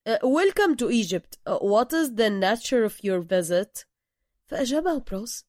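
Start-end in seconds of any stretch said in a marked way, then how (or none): 0.1-3.8 passport officer. Acted. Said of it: "سأله الرجل".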